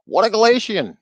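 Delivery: high, loud mocking cry of contempt; loud sneering put-down; scornful exclamation. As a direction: fling it out like a Portuguese insult. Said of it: "the Portuguese say".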